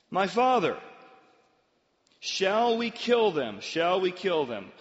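loud, drawn-out pleading question; eager plea. Acted. King asking Elisha about killing captives, eager. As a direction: beg for permission, stretching the words.

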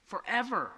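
"Forever" set apart and stressed; emphasized last word. Shown as a demonstration. Preacher repeats last word for congregation, emphasizing "Forever". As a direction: repeat "Forever" on its own with weight. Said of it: "emphasize that last word".

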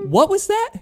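high, loud shout over the noise; shouted question. Retold or imitated. Singer shouting back at the woman he can't hear. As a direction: shout back across the stage.

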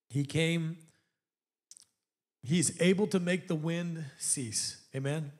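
low, soft, hushed preaching; quiet sermon lull. Acted. Preacher softly telling the storm story, hushed and low. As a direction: draw them in softly.

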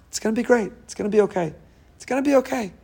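a bright reassuring lift; encouraging. Acted. Encouraging voice in your head.

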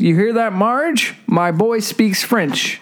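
lightly acted proud dad, slowing at the end; impressed Homer. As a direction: read it with a touch of amazed pride. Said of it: "Homer, impressed".

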